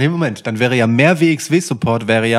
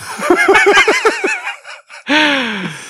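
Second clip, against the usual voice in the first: high burst of laughter. Real, not acted. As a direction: crack up laughing. Laughs at own answer.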